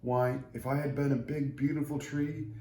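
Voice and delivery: a lightly voiced humble tree; grateful little tree. Tree thanking God for making it scrawny, humble and sincere.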